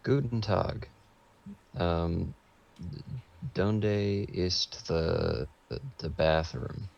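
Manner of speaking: halting German in a local American accent; American accent, groping slowly for each foreign word; local American in Germany. Shown as a demonstration. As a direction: fumble through tourist German with an American accent. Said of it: "They're in Germany, but it's someone from our local".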